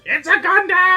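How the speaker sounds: high shouted quote of an anime pilot; anime hero shout. Retold or imitated. Host imitating a Toonami bumper, high yelled. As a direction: yell it like the cartoon announcer. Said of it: "the one guy who's just like".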